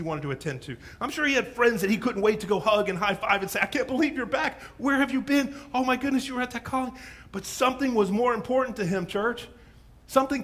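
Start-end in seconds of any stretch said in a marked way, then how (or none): 3.6-6.9 excited greeting. Acted. Friend greeting returned man.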